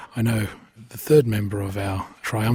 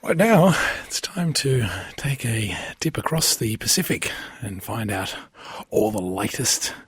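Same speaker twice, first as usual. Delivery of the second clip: playful radio host intro; radio announcer; 2 semitones higher, slower than usual. Acted. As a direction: sell the segment like a DJ.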